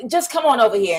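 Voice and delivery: retold urgent beckoning; pushy friend. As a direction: push like an aggressive matchmaker. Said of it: "She was being so aggressive".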